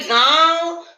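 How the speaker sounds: गांव with the आ slightly through the nose; nasalised vowel. Shown as a demonstration. Teacher shows children the chandrabindu in गांव, nasalised vowel. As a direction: let a little nose sound into the आ of गांव. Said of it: "नाक से आवाज आ रही है ना थोड़ी".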